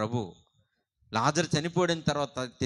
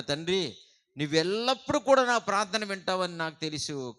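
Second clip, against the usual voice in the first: pleading prayer; 3 semitones higher, 5 dB louder than usual. Acted. Preacher voicing Jesus crying out to the Father, raised pleading. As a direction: preach it as an anguished appeal, voice raised. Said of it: "యేసుప్రభు గారు తండ్రికి మొరపెట్టుకుంటున్నాడు".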